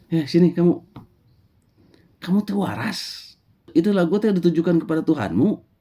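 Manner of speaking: high, sharp scolding voice; stern prophet Musa. Acted. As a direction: call him over and scold him. Musa confronts the shepherd. (Musa menegur dengan suara tinggi)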